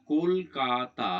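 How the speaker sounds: "কলকাতা" slowly broken into kol, ka, ta; syllable by syllable. Shown as a demonstration. Teacher showing three syllables in the word, "কলকাতা" slowly split. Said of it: "এই শব্দটির মধ্যে আসলে তিনটি অক্ষর আছে".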